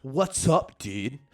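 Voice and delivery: loud, exaggerated American dude voice; hammed-up American bro greeting; mock American accent. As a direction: impersonate an Irishman faking an American accent. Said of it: "I can do an American accent better".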